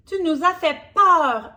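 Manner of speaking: high, loud relieved Drago. Acted. Drago tells Berk she scared them, loud relief. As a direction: blurt it out in relief. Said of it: "lui a dit Drago".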